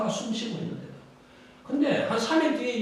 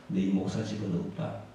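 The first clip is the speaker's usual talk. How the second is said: low, soft, grave Lord's voice; the Lord's verdict; 10 semitones lower, 5 dB quieter than usual. Acted. The Lord telling the deaconess her pastor has no house, grave low verdict. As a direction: lower the voice and pronounce the verdict.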